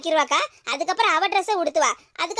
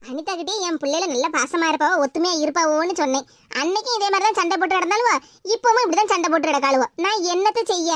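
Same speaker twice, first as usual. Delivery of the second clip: lower, lightly voiced mother covering for her girls; a hint of an embarrassed mother smoothing things over; 3 semitones lower than usual. Mother explains to guest Anitha.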